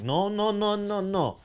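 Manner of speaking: high whiny protest; whiny denial. Retold or imitated. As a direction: imitate a sore fan. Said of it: "And they're like".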